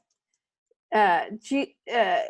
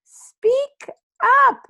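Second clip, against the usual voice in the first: stern father; 11 semitones higher, 6 dB louder than usual. Acted. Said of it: "And then your father says".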